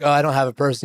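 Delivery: mild, even-toned calm reply. Retold or imitated. Tip answering the guy at the door, calmly. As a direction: answer evenly, no fuss at all. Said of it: "very calmly".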